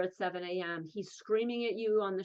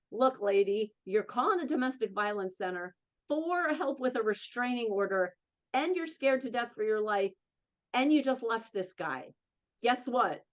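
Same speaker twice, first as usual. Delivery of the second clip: put-on sarcastic Jersey girl. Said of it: "the sarcastic Jersey girl in me will say".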